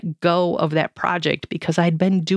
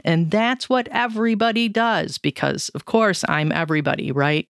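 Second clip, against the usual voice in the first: sarcastic. Real, not acted. Blogger mocking her own assumption that everybody is like her, sarcastic. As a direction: say it with tongue-in-cheek certainty. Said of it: "I'm being sarcastic there".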